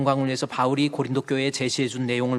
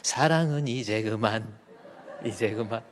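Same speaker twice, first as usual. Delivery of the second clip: laughing; 3 semitones lower than usual. Real, not acted. Ends song, laughing.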